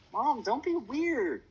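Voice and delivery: high, drawn-out embarrassed moan.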